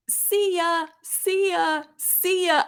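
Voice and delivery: high excited announcer call; Michael Kay home run call. Retold or imitated. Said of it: "I love that call".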